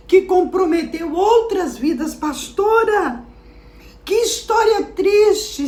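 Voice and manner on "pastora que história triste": higher, slow saddened voice; a slow pitying aside; lightly voiced listener. A listener tells the pastor the story is sad, higher and slow.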